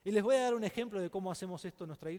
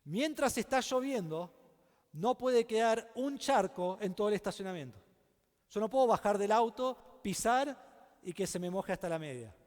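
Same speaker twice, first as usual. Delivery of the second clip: raised, insistent voice, higher and louder; firm demand; 4 semitones higher, 5 dB louder than usual. Retold or imitated. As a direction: lay down the law to the contractor. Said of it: "Yo le dije".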